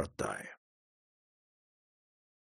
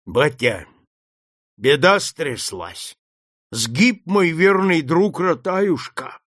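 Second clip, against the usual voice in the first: trembling grief; 3 semitones higher, slower than usual. Acted. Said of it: "Голос хозяина задрожал".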